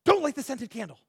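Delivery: "Don't light the scented candle" plus fort et plus aigu, en mise en garde; coupe-le net, comme un ami qui prévient; firm warning. Retold or imitated. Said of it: "and Gene said".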